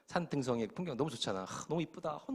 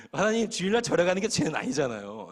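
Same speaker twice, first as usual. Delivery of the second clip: pleading to God; 5 semitones higher, 7 dB louder than usual. Retold or imitated. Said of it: "내가 하나님한테".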